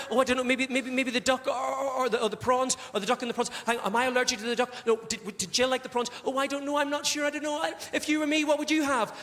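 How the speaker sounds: mildly hammed-up, wavering indecision; dithering. Woman agonising over starters to partner, dithering. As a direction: go round in circles over the choice.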